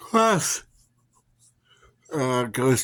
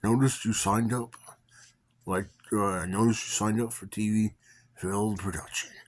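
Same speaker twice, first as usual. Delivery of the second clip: lightly imitating a deep old voice; deep voice impression; 3 semitones higher than usual. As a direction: put on a mild Gandalf voice. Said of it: "He talked like that, with a real deep voice".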